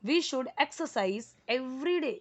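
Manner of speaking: very slow, each word spaced; slow model sentence. Shown as a demonstration. Teacher reading example sentence, very slow. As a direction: read it for the class to copy. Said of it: "model sentence read slowly".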